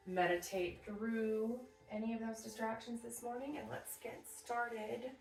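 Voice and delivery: put-on a touch of Texas accent. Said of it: "I don't know why I did that Texas accent".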